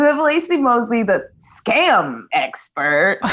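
slow, drawn-out reveal of the scam expert; milk the title like a game show host; grand host announcement. Shown as a demonstration. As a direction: announce it like a legend's arrival. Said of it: "I'm just gonna give you the read that you gave me".

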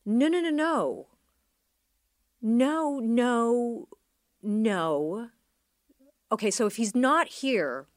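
loud, high no, no, no in disbelief; loud retold denial. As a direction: refuse to believe it, out loud. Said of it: "we were all like".

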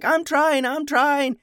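high, loud, pinched protest; desperate high protest; strained giant voice. Retold or imitated. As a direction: squeak it out as if straining. Giant straining to stop growing.

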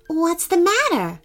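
gentle, high-pitched concern. Acted. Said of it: "asked Harrison gently".

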